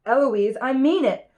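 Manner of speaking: mild shout of warning; insist, voice lifting on the last words. Acted. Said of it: "And then he shouts".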